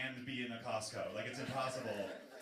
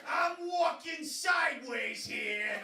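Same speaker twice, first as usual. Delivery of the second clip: laughing shout; 7 dB louder, much slower than usual. Acted. Comic opening bit, laughing shout.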